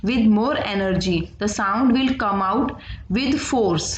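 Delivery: very slow definition read for note-taking; slow dictation. Acted. Teacher to students, slow dictation read. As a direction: read it out slowly so the class can write.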